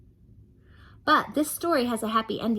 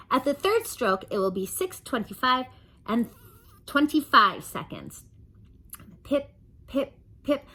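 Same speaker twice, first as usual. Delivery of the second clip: high, announcing time-signal voice; speaking clock voice; 5 semitones higher, 3 dB louder than usual. Acted. Chatterbox as the speaking clock, prim announcer. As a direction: recite like a recorded clock.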